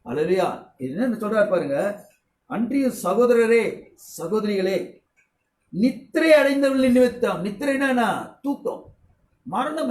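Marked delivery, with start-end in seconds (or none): 2.5-7.5 slow solemn Bible reading; measured preacher's recitation of the verse; scripture reading. Acted. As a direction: intone the verse slowly and deliberately. Rereads the verse.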